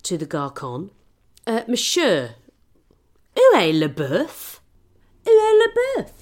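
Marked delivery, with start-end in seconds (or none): 1.5-6.1 loud, high, outraged French; indignant demand. Retold or imitated. Tipsy diner yelling at the waiter for the missing beef, shrieking. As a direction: bellow the question, building to a shriek. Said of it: "Fuming I was".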